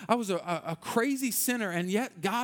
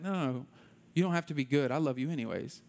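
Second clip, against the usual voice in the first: peaceful reassurance; 3 semitones lower than usual. Retold or imitated. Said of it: "an overwhelming sense of peace".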